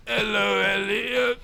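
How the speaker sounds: high, monotone drawn-out greeting; addled old teacher. Acted. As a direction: chant it blankly on one high note. Addled old teacher repeats phrase.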